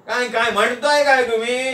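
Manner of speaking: lightly voiced, puzzled friend; puzzled Nana. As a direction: ask it in a high character voice. Nana questions the muttered remark.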